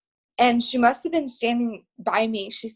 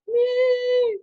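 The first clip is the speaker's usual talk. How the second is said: high mock scream of joy, much higher; retold excited shout; 14 semitones higher than usual. Speaker reliving the stage call-out, a high retold squeal. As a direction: squeal the answer like a fan in the crowd. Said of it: "I am screaming at the top of my lungs".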